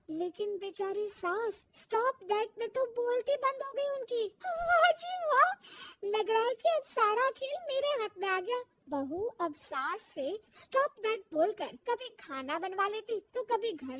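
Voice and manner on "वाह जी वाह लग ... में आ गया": gloating. Acted. Daughter-in-law gloating.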